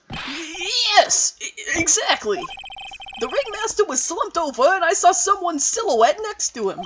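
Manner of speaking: high clown voice. Acted. Clown witness testifying nervously.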